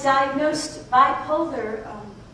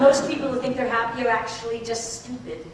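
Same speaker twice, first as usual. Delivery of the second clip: laughing; 4 semitones lower, 5 dB quieter, faster than usual. Acted. Laughing punchline in therapy.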